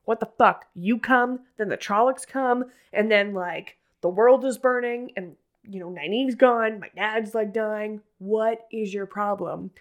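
half-hearted angry snap at Moiraine; retold snapping. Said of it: "kinda snaps at her a little bit".

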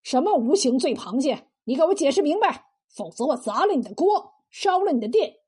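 mildly menacing demand, pushing forward; bully with a touch of anger; blustering threat. Acted. Bully threatens the cook over an insulting dish name, mildly blustering. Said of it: "气势汹汹地说".

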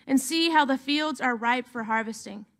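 measured, solemn reading of the gospel; scripture reading. Acted. Pastor reads gospel to the congregation, solemn and measured. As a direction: read the passage to the congregation, steady and reverent.

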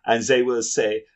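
put-on hammy German accent; fake German accent. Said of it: "fake German accent".

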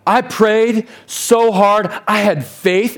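pleading complaint. Acted. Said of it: "sounds like our prayers to God".

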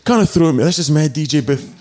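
high-pitched mock-indignant drunk; drunken protest. Drunk DJ refusing to leave his booth, high mock protest. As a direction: protest as your steaming drunk self. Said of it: "absolutely steaming".

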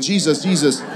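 mock-scared repeated plea at full voice; retold fearful praying. Husband hides under sheets, retold fearful praying. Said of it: "now I'm afraid".

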